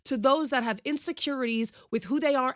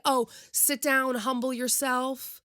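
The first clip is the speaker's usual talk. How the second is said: mocking scold; slower than usual. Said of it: "that that's okay to say".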